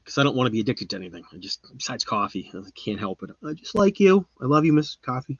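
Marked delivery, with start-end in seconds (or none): 3.4-5.4 high, mock-lovey cooing; playfully adoring. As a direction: sweet-talk your coffee in a high voice. Playful love talk to coffee.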